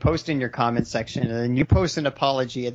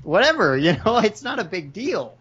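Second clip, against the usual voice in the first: casual mock stance; 4 semitones higher than usual. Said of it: "It's like".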